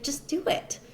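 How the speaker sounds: hushed push, voice dropped to a breath; retold whispered urging. Mom urging her daughter to knock, a hushed whisper. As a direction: whisper it like nudging someone on. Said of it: "She's like".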